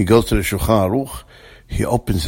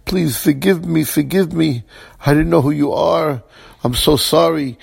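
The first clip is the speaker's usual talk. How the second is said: higher-pitched begging, no real sobs; mock tearful pleading; 5 semitones higher than usual. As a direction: plead for forgiveness, lightly imitating tears. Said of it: "He starts crying".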